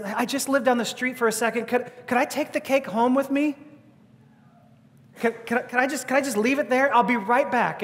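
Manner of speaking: bubbling over, asking to take it home; eager plea. Retold or imitated. Agnes eagerly asking the diner crowd to keep the cake.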